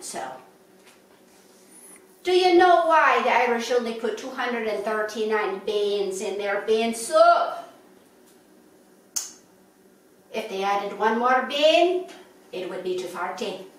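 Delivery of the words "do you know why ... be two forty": put-on light Irish accent for a joke. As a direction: tell the riddle in a lilting Irish accent. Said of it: "I have to throw in a little Irish accent".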